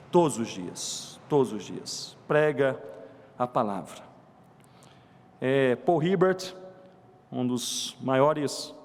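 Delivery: low, measured, subdued delivery; solemn preaching. Real, not acted. Preacher explains how the gospel transforms people, low and solemn. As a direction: come down low and let each phrase settle.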